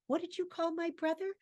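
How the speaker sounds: amazing threat. Acted. Mick confronts Davies about his brother, threatening. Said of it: "with amazing threat and says".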